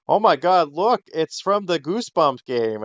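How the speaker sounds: high-pitched mock fan excitement; excited discovery. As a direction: imitate someone thrilled by a find. Acting out thrilled online discovery.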